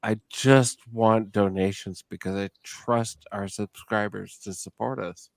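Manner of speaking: tipsy, words running together. Real, not acted. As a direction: slur it like you've been drinking hard. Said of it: "Man, I am slurring like a motherfucker".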